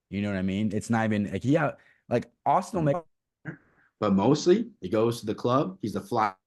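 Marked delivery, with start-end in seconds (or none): 2.5-6.3 choppy cutting-out mic audio; broken up connection. Real, not acted. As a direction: voice dropping in and out. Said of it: "you're coming in broken up".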